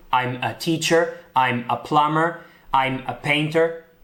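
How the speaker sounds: slow, careful English sentences; English example sentences. Shown as a demonstration. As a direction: model each sentence for learners. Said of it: "usaremos a". (frases de ejemplo en inglés, lentas)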